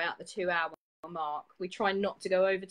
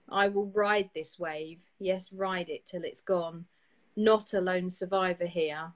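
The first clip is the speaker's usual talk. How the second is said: measured reading with firm line ends; poem reading. Acted. Host reading a listener's poem on air, measured and rousing.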